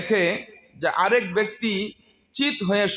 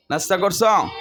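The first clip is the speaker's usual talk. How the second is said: নাস্তা করছো shouted at the class; loud question to rouse the students; loud asking. Shown as a demonstration. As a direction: call it out loud to wake the class up. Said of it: "তাহলে জোরে যারে কও".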